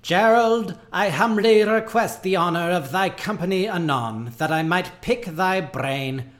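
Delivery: high, loud Shakespearean declaiming; hammy stage actor. Acted. Dingus memo read theatrically.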